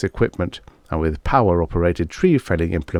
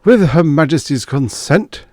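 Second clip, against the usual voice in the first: higher and louder, a statesman's address; Prime Minister's broadcast; 8 semitones higher, 5 dB louder than usual. Acted. Prime Minister addressing the nation on the BBC, grand louder oratory. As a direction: proclaim it like a wartime Prime Minister on the wireless. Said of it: "he said".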